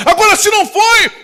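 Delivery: loud and high, rebuking the church; a preacher scolding the congregation at full force; fiery preaching. Real, not acted. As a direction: preach it hard at the crowd.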